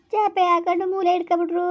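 crying as the voice climbs; tearful. Acted. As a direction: break into a tearful lament. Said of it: "ಅಳ್ಬೇಡಿ ನೀವು, ಅಳ್ಬೇಡಿ ಸುಮ್ಕಿರಿ".

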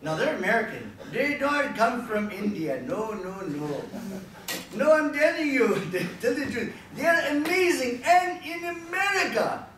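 put-on comic Indian accent, building to a high shout; mock Indian accent. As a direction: protest loudly in an exaggerated Indian accent. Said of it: "I have actually done silly voices on the phone".

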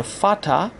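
فاتا with an f at the start and "a" ending. Shown as a demonstration. Teacher modelling German father, فاتا starting with f.

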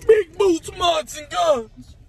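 loud, high excited yelling; hyped shout. Pretend. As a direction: shout it like a rally cry. Mock hype about military.

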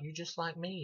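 a hint of a child whispering to her uncle; little girl voice. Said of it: "she's like".

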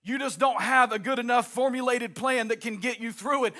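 rising, driving sermon cadence; preaching at full force. Acted. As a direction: preach it out over the organ. Preaching with music underneath.

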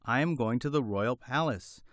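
high, chirpy hen voice; a small bird clucking its words out; little hen voice. Acted. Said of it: "replied the little white hen".

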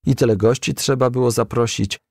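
plain reading voice

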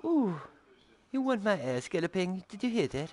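high teasing voice. Pretend. Teasing a rival rider.

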